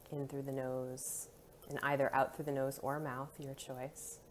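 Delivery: soft, calm meditation guiding; guided meditation. Acted. Guide settling listeners' bodies and breath before meditation, soothing guided meditation. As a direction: ease them gently into stillness, with long pauses.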